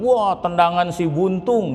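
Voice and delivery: slow, teasing fake compliment; sarcastic admiring remark; mocking praise. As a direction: dress up an insult as praise. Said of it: "itu ngenyek itu".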